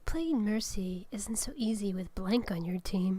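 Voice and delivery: whispered card reading; whispering. Acted. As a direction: whisper it like a secret.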